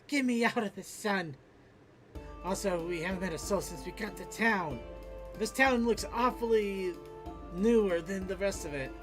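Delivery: usual speaking voice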